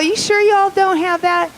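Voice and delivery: high, loud, drawn-out Southern doubt; Louisiana lady caller. Acted. Lady caller pressing the donut shop, high slow Southern drawl. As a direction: exaggerate a Southern lady's slow pleading. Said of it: "She's all".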